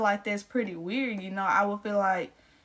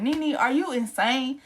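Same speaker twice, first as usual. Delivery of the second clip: incredulous; 4 semitones higher, 3 dB louder, slower than usual. Retold or imitated. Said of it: "That's what I wanted to say".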